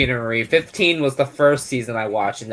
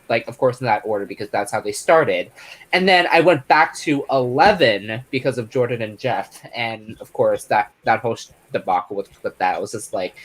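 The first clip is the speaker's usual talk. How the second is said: normal talking voice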